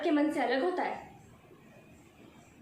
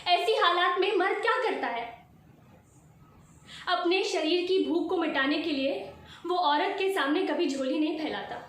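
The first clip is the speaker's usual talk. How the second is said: raised, forceful challenge; indignant accusation; 3 semitones higher than usual. Acted. Wife accusing husband of male entitlement, forceful and indignant. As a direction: confront him with pointed force.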